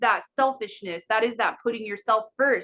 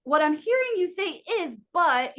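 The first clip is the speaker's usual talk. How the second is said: customer service voice; 4 semitones higher than usual. Shown as a demonstration. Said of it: "use the customer service voice".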